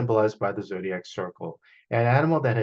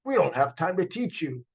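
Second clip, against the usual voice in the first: a hint of a stern busy uncle; 5 semitones higher than usual. Uncle brushes off Bo, lightly stern. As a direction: brush the boy off. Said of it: "he replied".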